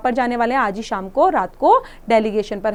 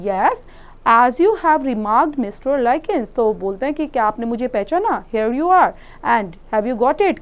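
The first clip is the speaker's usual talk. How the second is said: slowly spoken; slower than usual. Retold or imitated. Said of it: "ऐसे धीरे धीरे slowly बोलते हैं".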